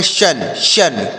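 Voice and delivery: शन said as "shun", with a clear sh; teacher modelling शन as "shun", repeated on its own; palatal sh sound. Shown as a demonstration. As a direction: begin शन with palatal sh, not a small s. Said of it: "तालव्य सा पढ़ेंगे".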